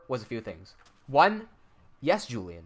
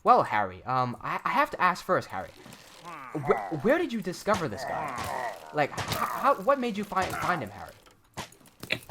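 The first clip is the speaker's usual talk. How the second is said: robotic salesman; 3 dB quieter than usual. Pretend. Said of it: "I'll pretend to be the salesman".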